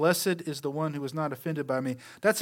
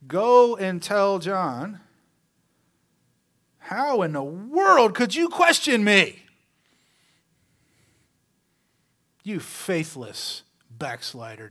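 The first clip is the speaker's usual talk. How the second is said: slow, scolding mock Jesus; mock harsh rebuke; 2 semitones higher, 6 dB louder, slower than usual. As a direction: scold John as if furious, then sneer.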